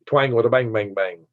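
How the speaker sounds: playful rhythmic Southern twang. Shown as a demonstration. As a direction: show off the Southern twang in a quick chant. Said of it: "That's what I talk".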